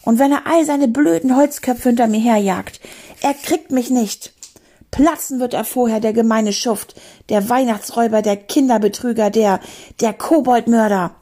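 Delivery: high, indignant tirade; unstoppable rant. Acted. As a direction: rail on insult after insult. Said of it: "war nicht mehr zu bremsen".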